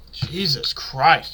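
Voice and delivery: croaky voice from a sore throat; strained, mucus in the throat; hoarse sick voice. Real, not acted. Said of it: "you guys hear this shit?".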